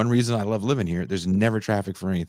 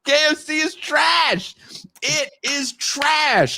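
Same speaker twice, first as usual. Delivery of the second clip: indignant shout; 13 semitones higher than usual. Real, not acted. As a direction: declare it like a sworn oath. Heated rant against KFC.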